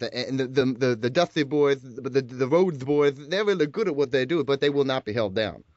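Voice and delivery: a faint hint of the old Dusty promo cadence; Dusty Rhodes impression. Podcast host doing Dusty for a guest to grade, lightly voiced. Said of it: "grade the host's impression of one and only Dusty Rhodes".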